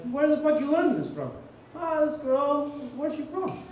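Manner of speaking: high-pitched imitation of a demanding grandfather; grandfather's questioning. Grandfather asking where he learned Italian, mock interrogation.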